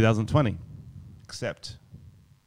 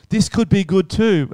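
imitating the missus; 8 semitones higher than usual. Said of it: "the missus comes in with another dress going".

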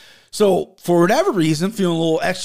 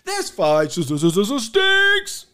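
mock stutter build; 4 semitones higher, slower than usual.

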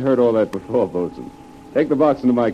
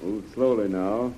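calm and careful; 5 dB quieter than usual. Acted. Calming servant near cobra.

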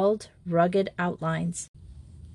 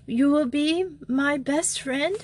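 put-on persistent girl; 7 semitones higher than usual. A narrator's reading. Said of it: "persisted Simone".

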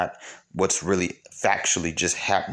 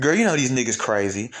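higher-pitched mock girlfriend chat; imitated gossip; 4 semitones higher than usual. Host imitates women blaming external reasons, mock gossip. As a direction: confide a rumor as an imitated girlfriend.

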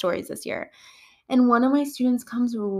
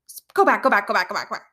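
freaking out; much faster than usual. Retold or imitated. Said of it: "I was freaking out".

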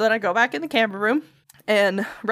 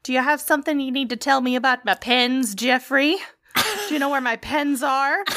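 sharper second try; 2 semitones higher than usual. Retold or imitated. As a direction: push the same question with more edge. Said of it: "second attempt".

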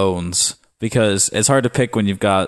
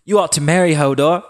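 put-on high taunting girl voice; mock angry sister; 8 semitones higher than usual. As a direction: sneer it high like a bratty sister. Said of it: "Sansa yelled".

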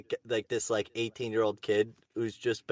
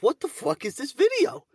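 mock outrage; 14 semitones higher, 4 dB louder than usual. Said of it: "and I'm like".

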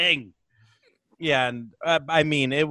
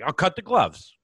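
redone with more push and lift; reenacted bandmate line; 3 semitones higher than usual. Comic redoing the guitarist's reply with more push. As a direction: give the guitarist's line a bigger, matter-of-fact punch. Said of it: "Like, like that".

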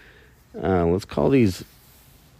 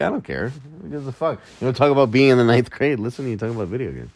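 higher, fast, snotty mock voice; mocking listeners; 6 semitones higher, faster than usual. Podcaster imitating listeners who scoff at gamers, snide. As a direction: mimic a scoffing heckler. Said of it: "A lot of you are like".

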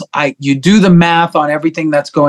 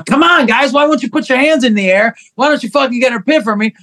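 pleading singer on stage; 8 semitones higher than usual. Retold or imitated. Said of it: "me standing up there every single song going".

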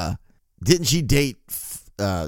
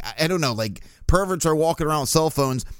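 ordinary talk

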